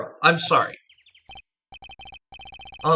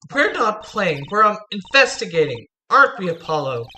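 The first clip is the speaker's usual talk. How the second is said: lightly voiced girl, higher and lively; girl assistant; 5 semitones higher than usual. Girl assistant correcting a grown-up who says they are playing, lightly protesting. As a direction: chirp it a little higher, protesting.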